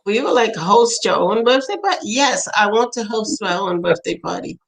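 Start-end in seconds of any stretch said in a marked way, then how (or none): 0.5-2.0 mildly incredulous question with a rise; retold parental puzzlement. Parents answering their son's odd request, mildly puzzled. 2.0-4.6 understated firm reply, falling away; retold child's insistence.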